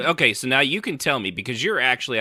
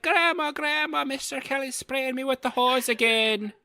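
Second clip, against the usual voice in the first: put-on higher, complaining little-boy voice; whiny little boy; 13 semitones higher than usual. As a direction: tattle to grandma like a small kid. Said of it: "You'd be like".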